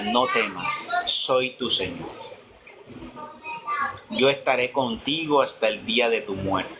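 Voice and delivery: sweet gentle voice. Retold or imitated. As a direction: speak gently and unhurried, like a comforting promise. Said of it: "una voz tan juvenil, tan dulce". (voz dulce y tranquilizadora, pausada)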